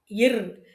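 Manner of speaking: "இர்" as a vowelless r; bare r sound. Shown as a demonstration. Teacher explaining the written ra, "இர்" as bare r. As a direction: sound "இர்" ending on a pure r, not ra. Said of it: "இர் உச்சரிக்கணும்".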